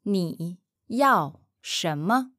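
slow model. Shown as a demonstration. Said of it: "slow first model take".

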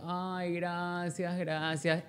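mock-tender gratitude; lingering hushed thank-you; soft thanks. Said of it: "Y yo".

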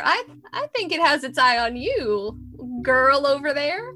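a Southern peddler showing off his wagon; southern accent. Acted. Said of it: "the southern accent really surprised me".

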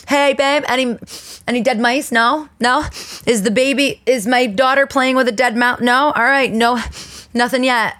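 mock cheery check-in. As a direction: play the sing-song morning check. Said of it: "give a little every morning".

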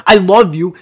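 loud, harsh-toned declaration of love; aggressive affection. Shown as a demonstration. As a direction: yell the loving words like a threat. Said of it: "why are you getting so aggressive".

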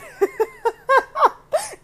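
high, loud laugh through tears; embarrassed tearful laugh; high teary laugh. Real, not acted. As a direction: laugh at your own tears. Laughing while tearing up.

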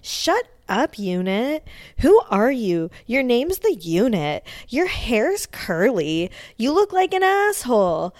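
high, loud imitation of a furious yell; mock angry rant. Snooki yelling at the Unit, mock furious shriek. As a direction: shriek the insults like she's losing it. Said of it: "She's like, she loses her shit".

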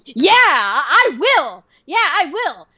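hammed-up emotional vow; mock fired-up resolve. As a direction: answer like an inspired recruit. Friend fired up by pep talk.

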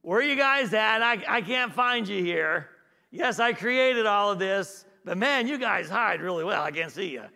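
mock baffled God. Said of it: "He wasn't saying".

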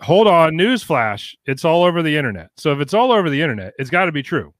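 sarcastic fake announcement; sarcastic newsflash. Real, not acted. Sarcastic mock about internet truth.

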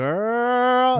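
squealed way up high and loud; a camp shriek of a greeting; sassy high "Girl.". Retold or imitated. Big guy walks in, greets them with a high sassy squeal. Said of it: "he walks in and he's like".

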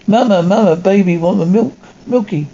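put-on baby voice asking mama for milk; high-pitched voice. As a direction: pitch it up like a little kid begging. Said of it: "high-pitched voice".

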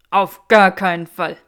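loud gasped no way; gasping refusal. A narrator's reading. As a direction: blurt it out, scandalised. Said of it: "keuchte Granger Draco".

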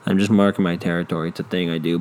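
a hint of an apologetic dog; sheepish dog. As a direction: play the dog making lame excuses. Dog voiced by owner.

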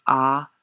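"ah" as an open, sustained vowel; "ah" said loud and open, as a model sound; demonstrated vowel. Shown as a demonstration. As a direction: sound out "ah" on its own. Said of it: "many sounds in Mandarin that we use in English".

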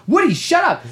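high-pitched mock yell; acted-out fed-up outburst; exasperated retort. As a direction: snap back at a nagging game character.

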